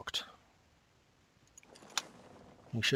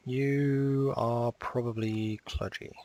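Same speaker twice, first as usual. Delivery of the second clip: slow drawn-out; 3 semitones higher, much slower than usual. Shown as a demonstration. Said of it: "let's try that again".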